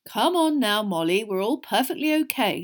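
gently coaxing reassurance; calm her down, kindly but firmly; soothing. A narrator's reading. Husband to his overwrought wife, soothing. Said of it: "said Mister Weasley soothingly".

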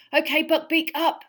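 high, loud command; urging call. Acted. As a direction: spur the beast on. Urging the hippogriff.

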